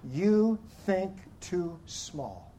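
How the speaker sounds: slow, stern judging voice; judgment voice. Shown as a demonstration. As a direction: say it like a judge. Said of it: "the best voice of judgment you can come up with".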